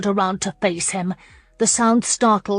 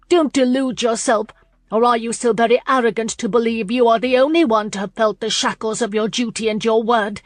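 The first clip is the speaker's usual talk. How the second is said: defiant woman; 2 semitones higher, 3 dB louder than usual. Acted. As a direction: challenge his arrogance hotly. Lauren challenging him.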